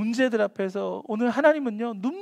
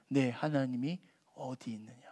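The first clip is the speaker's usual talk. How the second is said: voiceless, much softer whisper; piercing whisper; 9 semitones lower, 11 dB quieter than usual. Shown as a demonstration. Preacher whispering the question that stabs like a dagger. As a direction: let the question cut like a blade.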